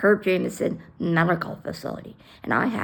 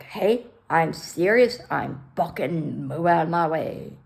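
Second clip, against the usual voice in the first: firm insistence; 3 semitones lower than usual. Retold or imitated. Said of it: "I showed prominence".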